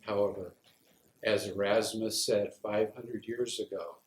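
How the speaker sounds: deliberate recital with pauses between images; poem reading. Acted. Veteran recites a poem on the smell of war, deliberate reading. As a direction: lay out each phrase of the poem separately.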